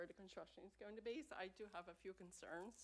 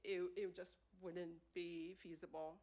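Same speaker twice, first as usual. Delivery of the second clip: steady voice with shaky moments; 5 dB louder than usual. Real, not acted. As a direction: voice wavering with feeling. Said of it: "I'm a little emotional".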